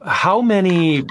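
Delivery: real laugh breaking into a slow question; frustrated laugh. Real, not acted. Podcast host on yet another database leak, laughing out of frustration. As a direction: let an exasperated chuckle split the question. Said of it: "I'm laughing out of frustration".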